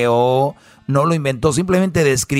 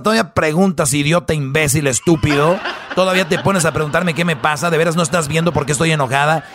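mock angry wife. Long acted rant of angry wife.

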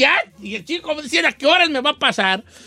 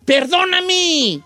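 mock tearful lecture; 4 semitones higher, slower than usual. Host lecturing Chino, mock tearful.

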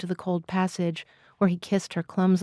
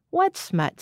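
high-pitched, offended query; 9 semitones higher than usual. A narrator's reading. O'Toole answering Missus Rogers's warning, getting offended. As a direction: protest as if wrongly accused. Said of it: "getting offended".

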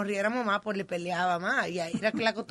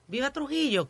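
parrot's cry; 4 semitones higher than usual. Retold or imitated. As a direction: lightly imitate a parrot calling out. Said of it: "ella se ponía a gritar".

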